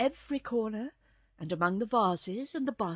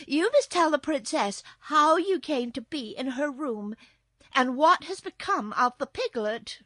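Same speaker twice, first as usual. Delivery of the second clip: loud, higher, urgent reproach; insistent little girl; 6 semitones higher, 8 dB louder than usual. A narrator's reading. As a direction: press the kitten for an answer.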